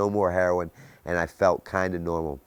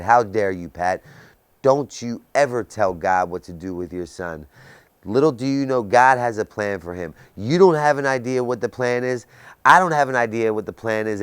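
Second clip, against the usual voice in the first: priest screaming; 3 semitones higher, 5 dB louder than usual. Retold or imitated. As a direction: thunder it at her like an outraged priest. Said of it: "He screamed at her".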